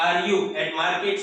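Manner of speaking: slow, careful classroom reading; slow model question. Shown as a demonstration. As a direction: say it slowly so learners can copy. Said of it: "teacher models the question". (ધીમું, સ્પષ્ટ વાંચન)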